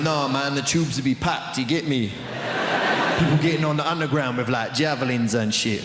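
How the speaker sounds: a hint of London street slang; lightly voiced young Londoner; London street accent. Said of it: "There's others going".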